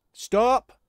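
sudden loud, high cry; alarmed shout. Acted. Guard warning the crew of movement, sharp loud shout. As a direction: stop everyone dead with one yell.

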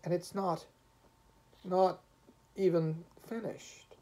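high, halting tearful lament; plaintive, weepy, with pauses; beginning to weep. A narrator's reading. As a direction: break it up as tears come. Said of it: "beginning to weep".

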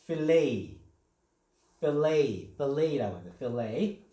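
필레이 said "fi-LAY" with a long final ay; American fillet. Shown as a demonstration. Teacher showing the American way to say fillet. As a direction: draw out the last syllable of 필레이 as "lay". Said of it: "미국식 발음은".

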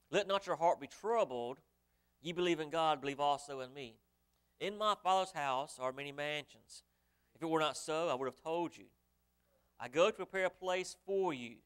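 preacher booming the scripture to the congregation; preaching at full force. Acted. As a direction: ring it out like a pulpit reading. Preacher reads the promise loudly.

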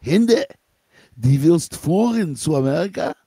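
calling out to her in the night, lightly voiced; great-grandfather's call. Great-grandfather wakes Hinda at night, lightly voiced call. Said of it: "and he says to her".

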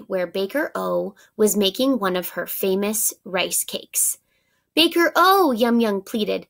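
animated picture-book reading; story narration. A narrator's reading. Teacher reads the bakery scene to pupils, lively narration. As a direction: voice each baker line for the class.

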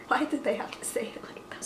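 soft unvoiced whisper. Real, not acted. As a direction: whisper it in disbelief. Whispering about the odd ad.

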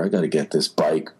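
low, dry list of excuses; deadpan. Retold or imitated. Actor brushing off a question about his character, deadpan. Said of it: "he just says it very deadpan".

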